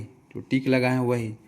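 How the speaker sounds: जो टिक लगाए वही drawn out slowly, each word spaced; slow repeat. Shown as a demonstration. Teacher repeating the rule to students, slowly.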